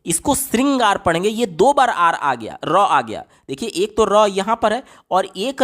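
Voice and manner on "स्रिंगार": श्रृंगार read as "sringaar", plain s plus short i; misspelling read literally. Shown as a demonstration. Teacher reading a wrong option to students, "sringaar" for श्रृंगार. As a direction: say श्रृंगार with SRI, an s not sh. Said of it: "इसको क्या पढ़ेंगे?".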